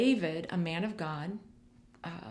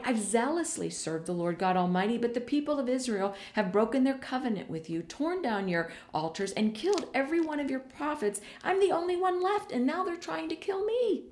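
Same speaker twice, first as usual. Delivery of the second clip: Elijah's lament; 6 semitones higher than usual. Acted. Elijah pouring out his complaint to God, rising plea. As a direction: pitch climbing as the complaint builds.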